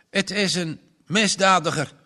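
farmer says it hard and firm. Acted. Farmer condemns Janus to Margje, said hard. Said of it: "zei boer Niemands Verdriet hard".

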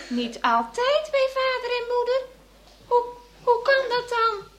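high, loud, tearful cry of disbelief; a shocked little girl near tears; upset disbelief. Acted. Girl hearing she was adopted, crying out in dismay.

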